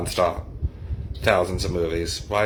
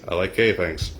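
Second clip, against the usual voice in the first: flat, dry deadpan delivery. Retold or imitated. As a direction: say it completely dry. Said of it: "Patrick Warburton just deadpans".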